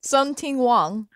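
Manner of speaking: "Sung Ting Wong" drawn out slowly, syllable by syllable; name pronunciation. Shown as a demonstration. Co-host answering for the artist asked his name, slow careful pronunciation. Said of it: "how do you pronounce your name".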